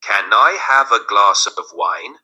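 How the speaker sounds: slow, careful model sentence; mais devagar. Shown as a demonstration. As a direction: say it slowly for beginners to follow. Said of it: "Vou falar mais devagar agora". (falando devagar para iniciantes)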